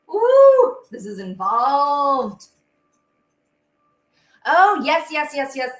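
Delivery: high, loud surprised ooh; a delighted gasp at the bowl; impressed ooh. Real, not acted. Host marvels at her whisking bowl, loud high ooh.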